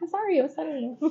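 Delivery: laughing apology. Retold or imitated. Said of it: "And I was like".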